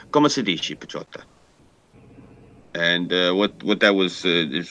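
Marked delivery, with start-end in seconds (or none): 0.1-1.2 father's greeting. Retold or imitated. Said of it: "he would always say to me".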